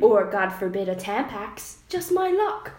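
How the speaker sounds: mock posh British with a giggle; put-on British lament; British accent. Shown as a demonstration. Reading Charles's lament to a friend, mock posh British. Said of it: "should I read it in an accent".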